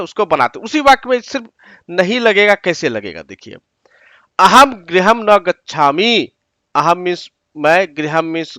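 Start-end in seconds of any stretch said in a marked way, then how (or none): 2.5-3.5 soft voiceless aside; whispered aside. Real, not acted. Teacher leading students into the next example, whispered. 4.4-6.3 slow and deliberate, each word set apart; slow dictation. Shown as a demonstration. Teacher reading a Sanskrit sentence to students, slowly.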